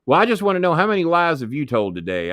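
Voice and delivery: lightly voiced nosy Jimmy; imitating Jimmy Cornette. Jimmy voiced in phone story.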